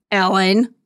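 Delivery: breathy whispered name. Acted. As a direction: whisper it into the void. Stage whisper to absent author.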